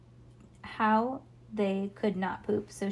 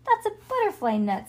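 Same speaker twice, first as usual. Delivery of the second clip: put-on scoffing child voice; 11 semitones higher, 5 dB louder than usual. Franny's scornful retort.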